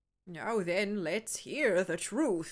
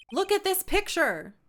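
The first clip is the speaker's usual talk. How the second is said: forceful objection; 9 semitones higher, 6 dB louder than usual. Acted. Lawyer slams evidence.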